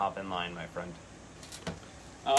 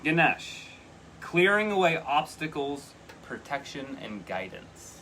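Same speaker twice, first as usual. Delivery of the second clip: emphatic reading; 4 semitones higher, 3 dB louder than usual. Real, not acted. Reading the card aloud.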